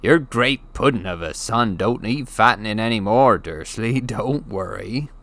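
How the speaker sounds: mocking giant voice ending in a laugh; dark chuckle. The giant mocks Uncle Vernon about his son, chuckling. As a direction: tease the fat boy's father. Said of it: "chuckled darkly".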